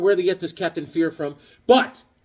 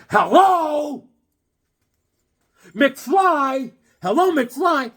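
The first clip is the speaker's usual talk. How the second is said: high, loud mocking hello; teasing call of McFly; mock Biff taunt; 9 semitones higher, 4 dB louder, much slower than usual. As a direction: knock on his head like Biff. Mocking clerks who ignore him.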